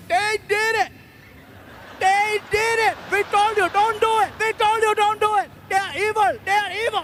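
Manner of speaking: high, panicked crowd shouting accusations; crowd yelling. Retold or imitated. Comic retelling of an Indian crowd yelling at the bat. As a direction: yell it like a frightened Indian crowd blaming him. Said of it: "They were yelling".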